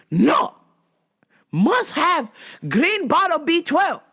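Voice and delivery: put-on insistent customer in a heavy Asian accent. Asian customer insisting to shop clerk, heavy Asian accent. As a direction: demand it in broken, Asian-accented English. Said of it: "this other Asian lady".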